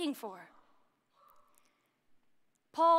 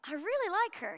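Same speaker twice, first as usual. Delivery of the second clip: high, lightly voiced vicar confiding; imitated vicar; 4 semitones higher than usual. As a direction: imitate a man conceding his liking. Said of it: "he said to his wife".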